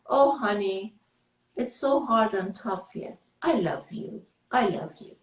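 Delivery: soft, loving reassurance; tender self-love. Shown as a demonstration. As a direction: comfort yourself tenderly. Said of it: "Be aware and say".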